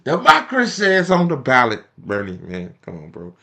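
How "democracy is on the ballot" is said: louder mock campaign-slogan delivery. Vlogger parodying Democrats' campaign slogan, sarcastic mock delivery.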